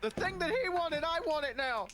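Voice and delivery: high, impatient acted demand; insistent demand. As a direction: insist on getting it right away.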